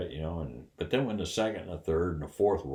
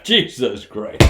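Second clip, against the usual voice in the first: astonished exclaim; 4 semitones higher, 11 dB louder, slower than usual. Retold or imitated. Mark realizes the prank.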